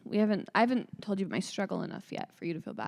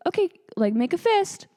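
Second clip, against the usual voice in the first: high, loud instruction; urgent hygienist; 10 semitones higher, 6 dB louder than usual. Retold or imitated. Hygienist instructing a patient who is losing control, urgent imitation. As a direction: imitate a nurse raising her voice at a patient.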